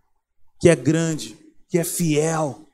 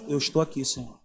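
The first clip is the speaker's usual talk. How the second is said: quiet prayer; 5 semitones lower, 8 dB quieter than usual. Pretend. Answering God's call in prayer.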